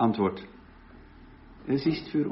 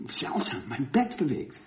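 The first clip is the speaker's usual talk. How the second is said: whispered aside; 5 dB quieter than usual. Retold or imitated. Erzählt vom nächtlichen Erdbeben.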